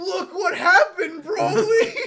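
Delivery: high, loud villain taunt; Frieza impression. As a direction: shriek it like a gloating villain. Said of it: "the way he does it".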